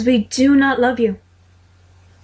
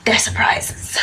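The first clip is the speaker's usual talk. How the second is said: whispered, teasing secret; secretive whisper; slower than usual. Acted. James whispers to Sirius that the plans are surprises. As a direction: hush it like a conspirator.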